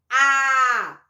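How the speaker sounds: A held long and loud; drawn-out A. Shown as a demonstration. Teacher showing children the sound of A, long and loud. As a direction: stretch the A for the children. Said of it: "E o A faz".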